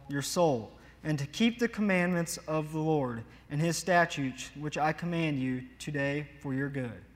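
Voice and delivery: slow, emphatic Bible reading from the pulpit; scripture reading. Acted. Preacher reading Deuteronomy to the congregation, slow scripture reading. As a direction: read the verse out slowly, phrase by phrase.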